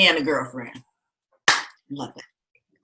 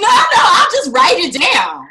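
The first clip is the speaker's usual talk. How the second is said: laughing; 10 semitones higher, 7 dB louder than usual. Retold or imitated. Laughing refusal to therapist.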